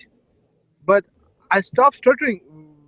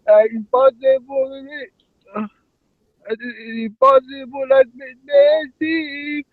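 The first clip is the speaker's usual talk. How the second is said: crying voice; 3 semitones higher than usual. Acted. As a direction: beg him tearfully not to leave. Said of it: "this crying voice".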